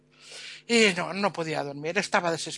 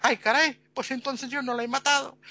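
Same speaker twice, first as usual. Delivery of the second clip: relieved surprise; 6 semitones higher than usual. Retold or imitated. Relieved realization.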